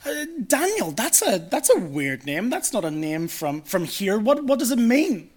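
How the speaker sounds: lightly acted curious questioner, pitch swooping; chirping up. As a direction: pipe up with a puzzled question. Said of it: "one of the Babylonians chirps up".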